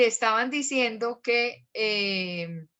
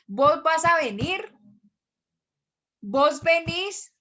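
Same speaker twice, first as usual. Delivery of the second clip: higher, lilting valluno accent; Valle del Cauca accent; 5 semitones higher, 4 dB louder, slower than usual. Shown as a demonstration. Teacher demonstrating vos forms, in vallecaucano accent. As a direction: stretch the endings like a vallecaucano. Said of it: "el bayuno le cambia a uno el acento".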